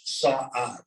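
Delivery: Saad stretched into two syllables, sah-ahd. Shown as a demonstration. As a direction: let the long vowel in Saad split in two. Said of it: "because it's two syllables".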